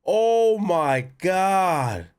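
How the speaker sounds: shaken. Real, not acted. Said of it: "That scared the shit out of me".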